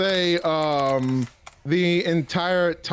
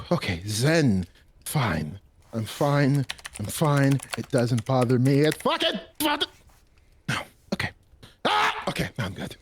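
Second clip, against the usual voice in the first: self-calming; 6 semitones lower than usual. Acted. Ransom calming himself down.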